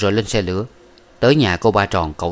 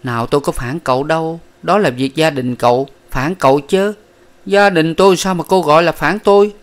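higher, louder, sharp retort; 8 semitones higher, 4 dB louder than usual. A narrator's reading. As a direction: Miss Ba denies betraying him, sharp and higher. Miss Ba retorts.

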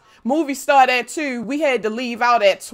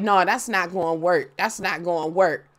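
dad voice; 5 semitones lower than usual. Retold or imitated. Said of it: "he was like".

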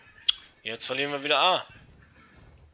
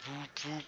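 softer echo of the train hoot; muted imitated train sound; quieter train noise; 11 dB quieter than usual. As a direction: hoot it again, much softer. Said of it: "Der Zug fährt hier durch die Gegend".

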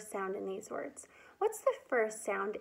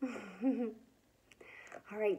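laughing; 7 dB quieter than usual. Real, not acted. Laughs while speaking.

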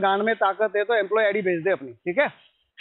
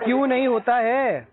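insistent question; 3 semitones higher than usual. Real, not acted. Debtor pushing back at collector, insistent.

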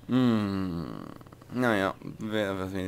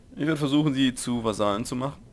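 put-on pseudo-Russian accent; 5 semitones higher, 6 dB louder than usual. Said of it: "mit so einem pseudo-russischen Akzent geredet habe".

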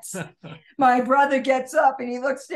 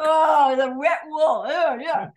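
disgusted exclamation; 5 semitones higher, 3 dB louder than usual. Real, not acted. Disgusted memory of wet wool.

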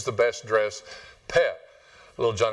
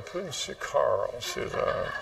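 congregation echoing; 6 dB quieter, slower than usual. Retold or imitated. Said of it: "Some of y'all going".

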